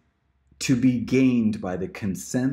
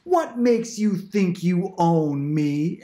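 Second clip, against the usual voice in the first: quoting Barbie; 8 semitones higher, 3 dB louder, much slower than usual. Retold or imitated. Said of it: "She goes".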